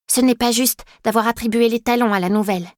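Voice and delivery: a mild plea for fairness; lightly voiced girl pleading for the newcomer. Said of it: "plaide-t-elle".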